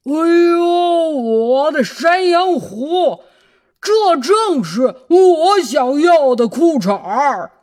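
loud excited exclamation. Acted. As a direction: gush with delight. Wolf delighted by underpants.

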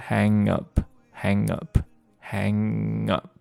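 slow linked hang up. Shown as a demonstration. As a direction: hang up, slow, ng running straight into up. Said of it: "连在一起就是".

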